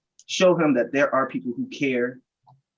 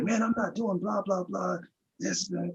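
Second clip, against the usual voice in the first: high-pitched, agitated brush-off, imitated; imitating an irritated shoplifter brushing off help; retold upset; 8 semitones higher, 6 dB quieter than usual. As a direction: mimic an upset young man waving him off. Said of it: "And he was upset".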